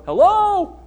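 high, loud, drawn-out call to be let in; mock-impatient plea from outside; anxious calling out. Peter stuck outside the gate, calling out anxiously. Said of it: "Pete's out there going".

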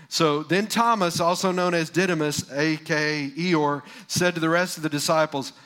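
slow, weighty announcement before the punchline; slow dramatic build-up. Shown as a demonstration. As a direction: drag it out to build suspense. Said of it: "Okay, you ready for this?".

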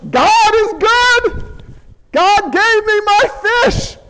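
high, drawn-out whooping joy; acted ecstatic hollering with a whoop; jubilant celebration. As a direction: crow it out while dancing on deck. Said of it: "Joe is just dancing".

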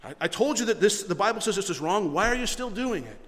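a mild mock scolding pastor; impatient scolding. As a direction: nag at someone who won't change. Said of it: "That's not long suffering".

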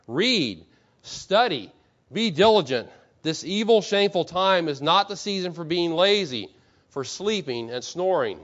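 measured, emphatic declamation with pauses between commands; lightly voiced stern reformer, driving each phrase home; Martin Luther. Preacher reading a reformer's charge to pastors, emphatic and deliberate. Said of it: "That's typical Luther".

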